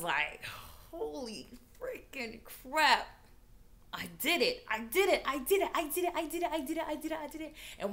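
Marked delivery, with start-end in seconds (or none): 0.9-7.5 triumphant glee. Retold or imitated. Celebrating getting the car.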